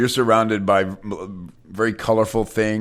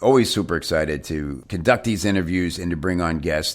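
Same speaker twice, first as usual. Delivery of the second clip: upbeat announcer welcome with music; bright podcast host opening; radio host voice. Acted.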